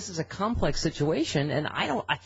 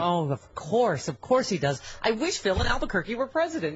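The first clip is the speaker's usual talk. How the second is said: sarcastic agreement; 2 semitones higher than usual. Real, not acted. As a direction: agree with mock conviction, stretching the first words. Sarcastic agreement to co-host's praise.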